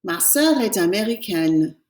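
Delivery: "Ma sœur est américaine" again slowly, N ending clear; teacher repeating the model; slow French repeat. Shown as a demonstration. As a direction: repeat it for the class. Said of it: "we have to pronounce the N".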